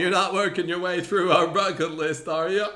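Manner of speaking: high, loud, slow character impression; Stephen. Shown as a demonstration. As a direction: ham up the accent, drawn out and loud. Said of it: "say it in Stephen's voice".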